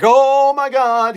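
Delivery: high, drawn-out mock swoon; slow, high-pitched imitation of an amazed girlfriend; imitating girlfriend's amazement. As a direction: stretch it out in hammed-up awe. Acting out his girl's delighted reaction.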